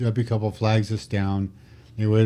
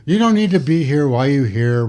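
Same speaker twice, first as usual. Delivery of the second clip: mock angry yell; 3 semitones higher, 4 dB louder than usual. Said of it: "he's still going".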